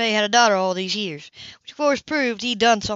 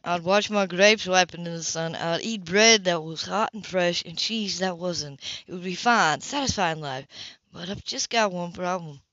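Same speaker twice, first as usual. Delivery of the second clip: softer, lower teasing man; lightly voiced Philip; 5 semitones lower, 4 dB quieter than usual. Philip teases Mother with a vineyard fantasy, soft. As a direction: spin the daydream gently.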